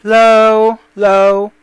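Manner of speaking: stepping the pitch down on "low"; slow, sinking "low"; going low. Shown as a demonstration. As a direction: let each drawn-out "low" sink a little. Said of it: "you'll go low".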